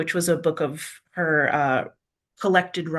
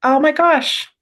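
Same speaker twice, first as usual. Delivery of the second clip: higher and louder, a genuinely surprised oh my gosh; real surprise at spotting the quote on the page; bright burst of surprise and delight; 8 semitones higher, 6 dB louder than usual. Real, not acted. Finds the quote in the book.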